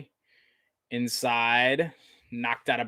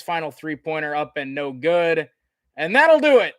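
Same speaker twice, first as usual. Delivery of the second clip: raised, ringing end-of-game call; big sportscaster sign-off at the buzzer; excited play-by-play; 6 semitones higher, 4 dB louder than usual. Real, not acted. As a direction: announce the victory to the whole arena. Calls the final seconds of win.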